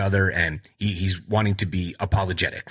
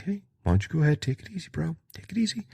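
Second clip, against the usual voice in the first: high, soft mock boss calming him down; 7 semitones higher, 3 dB quieter, much faster than usual. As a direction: play the laid-back boss, pitched up. Boss voiced in retold scene.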